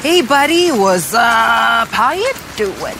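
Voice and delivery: exaggerated American accent, laid on thick. Mocking how americans say hi to everyone, in a very american impression. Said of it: "your so American impression".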